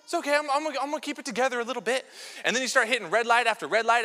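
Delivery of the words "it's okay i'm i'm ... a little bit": forced calm. Retold or imitated. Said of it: "you're like".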